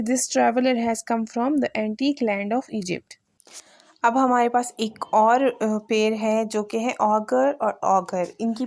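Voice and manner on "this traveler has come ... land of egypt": slow, careful dictation pace; slow example sentence. Shown as a demonstration. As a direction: say it slowly again as the example. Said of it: "जैसे". (धीमे, साफ़ उच्चारण में)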